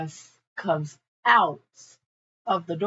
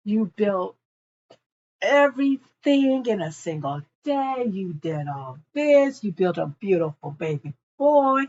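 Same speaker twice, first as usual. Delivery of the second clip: humble gushing. Retold or imitated. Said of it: "she's being a humble, saying".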